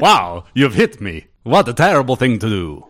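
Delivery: put-on Transylvanian accent. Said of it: "vampire voice".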